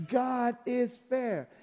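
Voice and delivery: «God is fair» slowed right down and softened; slow and soft. Shown as a demonstration. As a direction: let «God is fair» sink in, slowly.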